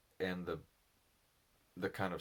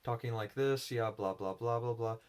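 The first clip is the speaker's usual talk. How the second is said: raised, louder voice for the demo; high voice demo; 5 semitones higher, 6 dB louder than usual. Shown as a demonstration. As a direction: pitch it up high and push it out. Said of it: "versus talking like this".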